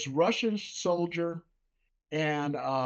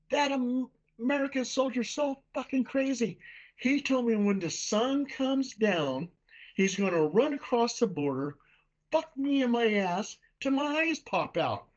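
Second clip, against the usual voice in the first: panicked soldier; 7 semitones higher than usual. Retold or imitated. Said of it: "He goes".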